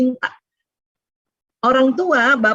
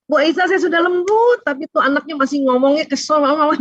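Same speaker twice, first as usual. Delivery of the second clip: mock complaining parent; 6 semitones higher than usual. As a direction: play a mother moaning to the teacher. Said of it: "gitu ya".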